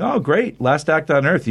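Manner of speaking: high-pitched "oh, great", easing down; lightly acted villain's glee; mock delight. Skull-faced guard greeting the squad, mock delight.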